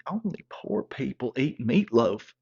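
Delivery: slow disbelieving repeat, leaning on poor; slowed, offended echo of her line; incredulous echo. Retold or imitated. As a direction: throw her words back in disbelief. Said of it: "I'm like".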